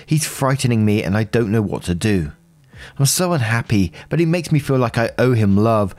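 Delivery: evenly paced read-aloud of a personal post; story narration. A narrator's reading. Narrator reading out someone's post about a troubled relationship, story narration. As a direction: read it out as a first-person account.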